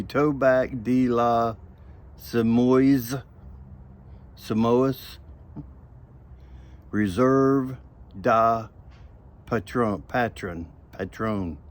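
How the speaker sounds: Tobac de la Semois drawled in a Southern US accent; Southern accent reading Tobac de la Semoy; Southern back home accent. Shown as a demonstration. Uncle Willie reads the tobacco name in his Southern accent. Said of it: "in my back home accent".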